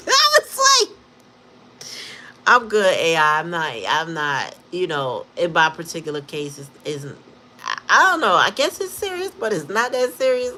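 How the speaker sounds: can barely keep it together; laughing. Real, not acted. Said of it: "I'm so tickled right now".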